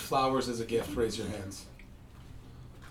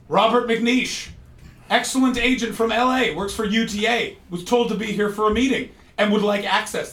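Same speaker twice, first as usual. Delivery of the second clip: posh agent persona; 7 semitones higher, 5 dB louder than usual. Retold or imitated. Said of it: "I have an alias".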